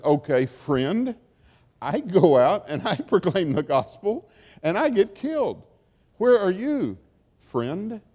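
lightly voiced Jesus, teasing and reproachful; a hint of Jesus asking where his friend is; mock reproachful Jesus. Jesus teases a believer about friendship, lightly reproachful. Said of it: "says Jesus".

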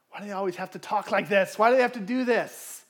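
mounting frustration. Retold or imitated. Seething at a coworker, voiced.

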